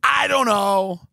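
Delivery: loud, hesitant mock dodge; a caught critic dodging, loud and unsure; mock evasive stammer. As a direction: stall like someone with no answer. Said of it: "they go".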